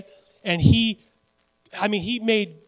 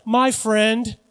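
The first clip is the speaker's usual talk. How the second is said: raised, mock-chummy address; lightly hammed-up self-congratulation; man addressing himself; 4 semitones higher, 4 dB louder than usual. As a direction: greet yourself as a dear pal, pitched up. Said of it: "who talks like this to himself?".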